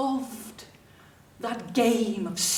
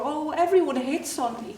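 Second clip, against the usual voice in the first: lightly mimicked humblebrag; mock being bothered by the attention; fake complaining; 4 semitones higher, 3 dB louder than usual. Girl mimics schoolmates boasting of male attention, fake complaining. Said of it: "most of it was fake".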